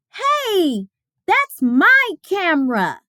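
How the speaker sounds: put-on a boy claiming his camera; indignant Martin. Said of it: "Martin said".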